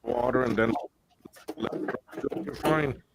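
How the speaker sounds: choppy, dropping-out mic audio; broken-up call, words cutting out. Real, not acted. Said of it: "Your mic is cutting out".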